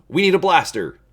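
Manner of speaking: high, loud, panicky cry; urgent shout. Acted. Han panicking as the crates stir, an urgent loud shout. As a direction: yell it at Chewie in alarm.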